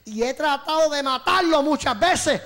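slow, emphatic voice for the Ouija; Ouija answering. Retold or imitated. Ouija answers trembling youth about Roberto Lugo, slow menace. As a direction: stretch out the threat with force. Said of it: "la Ouija me contestó".

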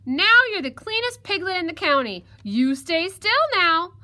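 loud, high fox giving orders; bossy fox. Acted. Fox orders the washed piglet to stay, bossy. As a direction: declare it loudly, then order firmly.

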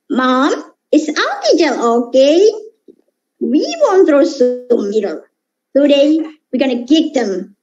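lightly voiced corn-headed witch; a hint of a witch, ready to attack; Spike's witch voice. Spike telling Mom they will attack, lightly voiced witch. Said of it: "this Spike's voices for a witch".

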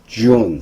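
"June" with lips pushed out on the J; rounded-lip J. Shown as a demonstration. Teacher explaining June to learners, protruded lips on J. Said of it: "입술을 내밀고".

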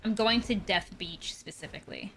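unvoiced whisper to herself. Real, not acted. Player muttering her plan, whispered. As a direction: breathe it out under your breath. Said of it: "whispered to herself".

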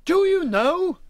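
high, loud character voice; booming. Acted. Wally muses aloud to his friends, booming. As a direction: boom it out, high-pitched.

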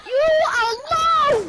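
drawn-out, loud gloating jeer; taunting yell. Real, not acted. Gamer jeering at the opponent he just killed, loud and slow. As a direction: stretch it out slowly and rub it in. Taunting enemy player over game chat.

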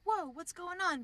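a high, loud, startled whoa; startled priest. Retold or imitated. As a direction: jump in, alarmed by the commotion. Priest reacts to nuns fighting.

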